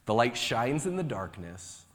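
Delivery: measured, solemn reading of the Word; scripture reading. Acted. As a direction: read it out like a lesson at the lectern. Reads scripture aloud.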